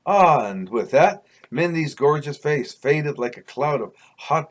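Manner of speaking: measured, deliberate read-aloud storytelling; story narration. A narrator's reading. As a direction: read it like a memoir chapter. Reads own story aloud.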